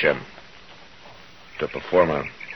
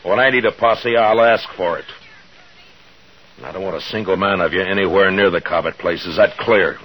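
stern, louder command to the crowd; firm order; 3 semitones higher, 4 dB louder than usual. Acted. Marshal to angry townsmen, sternly forbidding a posse. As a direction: lay down the law, no argument.

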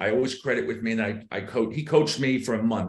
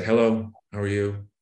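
flat tonality. Shown as a demonstration. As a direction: recite it with no lift or interest. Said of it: "It stays flat".

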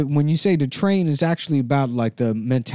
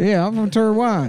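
put-on Taiwanese accent; 6 semitones higher than usual. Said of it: "traditional Taiwanese accent".

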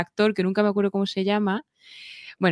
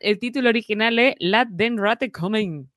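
put-on German-sounding accent; 2 semitones higher than usual. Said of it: "Me sale más alemán que sueco".

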